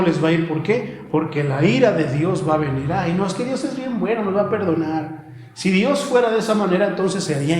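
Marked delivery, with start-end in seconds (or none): 2.9-5.3 mimicking someone who is too trusting; mock naive objection. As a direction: play a naive believer brushing it off. Mimics complacent people's naive objection.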